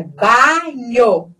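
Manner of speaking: "banho" with open, un-nasal A before ny. Shown as a demonstration. Teacher reminds about vowels, open A in "banho". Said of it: "é aberto".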